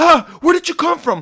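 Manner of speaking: very high, loud, panicked scream. Retelling how a man ran out of his room at them, imitating a panicked scream. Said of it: "freaking the fuck out, screaming".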